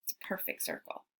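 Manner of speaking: hushed, unvoiced whisper; secretive whisper. Giotto confiding to the envoy, whispered. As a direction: let him in on the secret.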